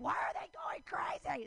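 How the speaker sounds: whispered, slow and gossipy; mock whisper. Men gossiping about menopausal women, mocking whisper. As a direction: whisper it behind their backs. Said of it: "And they're like".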